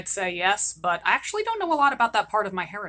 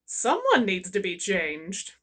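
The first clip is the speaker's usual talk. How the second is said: lower, slow disgusted remark; grossed-out aside; 4 semitones lower, slower than usual. Acted. Mother noting the baby needs changing, slow and grossed out. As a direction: wrinkle your nose and say it slowly. Diaper joke.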